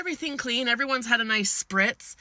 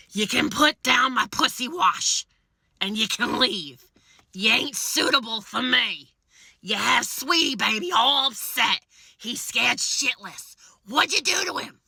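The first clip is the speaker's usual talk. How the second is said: scolding homeowner; 3 semitones higher than usual. Retold or imitated. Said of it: "looks at me and goes".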